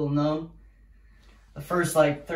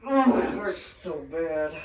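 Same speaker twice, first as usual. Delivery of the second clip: pained laughing; 7 semitones higher than usual. Real, not acted. In the ice, laughing.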